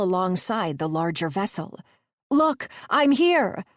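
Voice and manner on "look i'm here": high, loud and slow call; shouting out. A narrator's reading. Gabby calling to the raft, slow loud shout. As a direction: stretch the shout out over the water.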